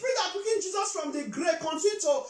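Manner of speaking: impassioned church declaration; fervent prayer. Real, not acted. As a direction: proclaim the prayer over the congregation. Interprets the prayer aloud.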